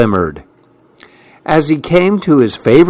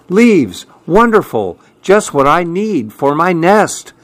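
squirrel voice; 5 semitones higher than usual. Acted.

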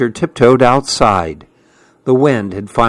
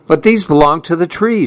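quick, raised little protest; small animal voice; 5 semitones higher, faster than usual. Acted. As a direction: plead fast like a worried hedgehog. Fletcher protests to squirrel.

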